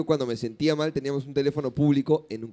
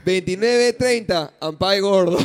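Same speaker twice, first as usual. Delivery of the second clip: calling out; 3 semitones higher, 6 dB louder, slower than usual. Pretend. Hide and seek call.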